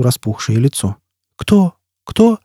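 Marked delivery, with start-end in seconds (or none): 1.4-2.4 startled disbelief. Acted. Stunned by the name.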